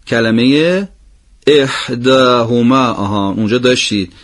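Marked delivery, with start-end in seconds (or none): 1.5-2.9 slow احداهما with a long final ما; slow recitation. Shown as a demonstration. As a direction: draw out the final vowel of احداهما. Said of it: "به احدکم یه مقداری شباهت داره". (احداهما آهسته با کشش آخر)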